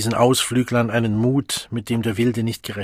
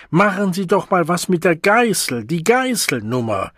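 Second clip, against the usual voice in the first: jeering demand; 6 semitones higher, 3 dB louder than usual. Acted. Crowd demands the whip act.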